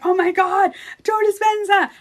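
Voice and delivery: high, loud gushing amazement; thrilled shout of his name; retold amazement. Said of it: "I was like".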